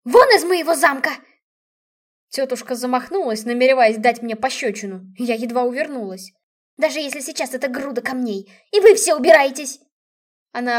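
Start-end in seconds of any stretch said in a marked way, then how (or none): 0.1-1.1 loud, higher furious order; aunt screaming at her niece to get out. A narrator's reading. 6.8-9.8 aunt yelling at the whole family; raging. A narrator's reading.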